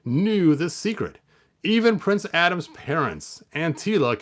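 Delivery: paced read-aloud to viewers; storybook reading. Acted. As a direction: read the tale like to kids.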